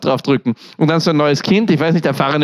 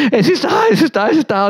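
high, urgent announcement; urgent cry; 9 semitones higher, faster than usual. Retold or imitated. Mother crying out that the baby is here, high and urgent. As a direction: call it out high and excited.

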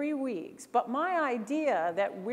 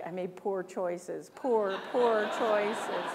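mock regret; 3 semitones lower, much slower than usual. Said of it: "I'm like".

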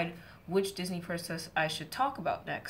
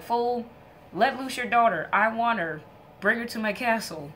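louder, demanding god's voice; commanding god; 3 semitones higher, 5 dB louder than usual. Acted. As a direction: bark it like a spoiled god giving orders. Eros orders Psyche's father.

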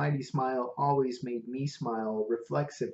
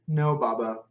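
lightly voiced Indian cabbie, earnest; a hint of an Indian English lilt; Indian accent; 4 dB louder than usual. Prabhu answers Lin.

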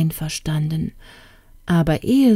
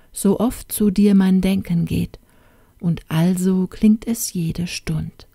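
measured, tender verse reading; poem recitation. Acted. Youth to the absent princess he adores, reciting verse. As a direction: recite a love poem with care.

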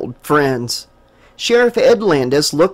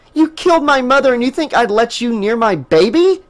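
Jessica screams at Stephen over her mother; furious shout; 7 semitones higher than usual. A narrator's reading. Furious shout. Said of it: "she shouted".

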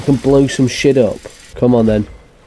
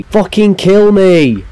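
despairing plea, louder; 8 semitones higher, 5 dB louder than usual. Real, not acted. Gamer begging to die.

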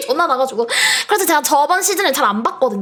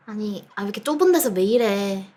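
ordinary talk, nothing marked

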